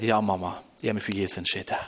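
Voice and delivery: low, softened resolve; quiet confession. Retold or imitated. Son telling his mother on the phone, quiet confession.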